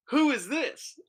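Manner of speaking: high-pitched mock interrogation; boyfriend's questioning. Boyfriend walks in and questions the stranger, high mock questioning. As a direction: imitate a boyfriend demanding an introduction, pitched high.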